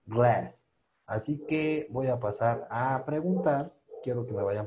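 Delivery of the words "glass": "Glass" with a lazy, heavy tongue; numb tongue glass. Shown as a demonstration. Teacher models glass with a relaxed tongue. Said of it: "con la lengua muy entumida".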